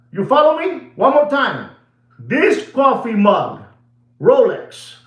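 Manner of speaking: riled-up pitchman energy; fired-up Rolex mug rant; excited rant. Real, not acted. Ranting about Rolex mug.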